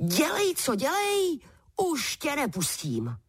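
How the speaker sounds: exclaiming. A narrator's reading. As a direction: cry out, gripping him tight. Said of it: "zvolal Patrik". (vyšší vítězné zvolání)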